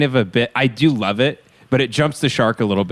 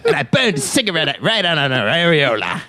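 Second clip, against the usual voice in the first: hammed-up pimp bragging through laughter; Jack Lemmon as pimp; 4 semitones higher than usual. Jealous pimp recounting revenge to his friend, hammed-up pimp. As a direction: play a mock-indignant pimp telling his tale. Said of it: "this character is Jack Lemmon if he was a pimp".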